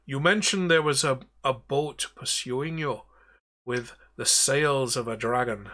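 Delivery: lightly voiced pirate captain; captain granting freedom, then asking a favor; Davy Jones. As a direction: ghost captain asking the party for help. Davy Jones addresses party.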